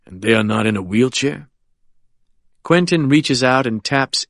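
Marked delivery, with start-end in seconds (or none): 0.1-1.5 put-on smiling at a frightened child; confident old lawyer. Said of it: "The old lion's smile broadens".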